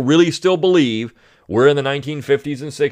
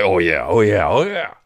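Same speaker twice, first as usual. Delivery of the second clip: mock idiots; 8 semitones higher than usual. Host mocks readers who believe the letter, put-on dimwit voice. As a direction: play the gullible reader. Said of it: "read this and say".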